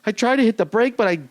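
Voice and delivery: slightly high, drawn-out imitation of her; over-explain in her lightly put-on voice; retold white lady driver. Woman driver explains her sandal mishap, drawn-out mock excuse. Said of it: "this is a white lady".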